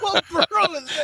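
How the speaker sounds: high squeaky repeat of the line; mock high echo. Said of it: "It's the Irish borough".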